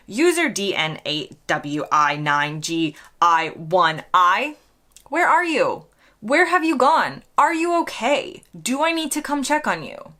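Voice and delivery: fretting, searching for a lost friend; worried calling out. Retold or imitated. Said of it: "I've been looking through my comment section going".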